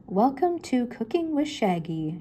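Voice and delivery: high, slow mock French chef accent; hammed-up French chef; funny French accent. Shaggy playing TV chef in a funny French accent. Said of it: "in a funny French accent".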